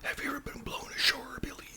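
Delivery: whispered pirate talk, slowing at the end; a hint of pirate in a hush; Pirate Mark. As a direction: lightly imitate a pirate while whispering. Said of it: "you know, kinda like that".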